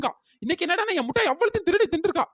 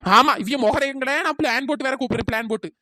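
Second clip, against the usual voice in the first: sarcastic mockery; 4 semitones lower than usual. Mocking the friend's suspicion.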